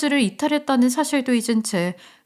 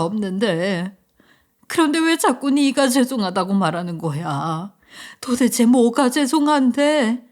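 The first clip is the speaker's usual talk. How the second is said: crying mother. Acted. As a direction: plead through tears, mild shout. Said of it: "서럽게 울다 저를 보면서 소리치는". (서럽게 우는 엄마)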